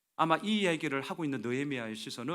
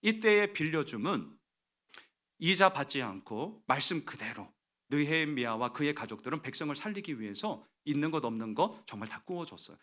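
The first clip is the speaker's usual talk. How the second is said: ordinary talk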